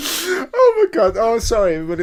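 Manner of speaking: loud, high laughing outburst while talking. Reacting to the name Brenda and apologizing to everyone, laughing while talking. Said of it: "That's really tickled me".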